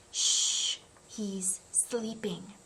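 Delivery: whispering not to wake him. Acted. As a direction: hush someone so he sleeps. Unvoiced hush, chapter title.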